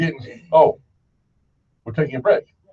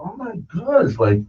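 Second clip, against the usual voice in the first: higher, marvelling self-put-down; awed; 3 semitones higher than usual. Retold or imitated. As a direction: gush over a hidden genius. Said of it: "and I go".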